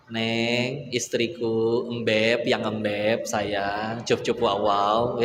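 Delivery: playfully doting husband, slow at the end; tender sweet talk. Acted. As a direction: coo these pet names to your wife, slowing on the last one. Husband sweet-talks his wife.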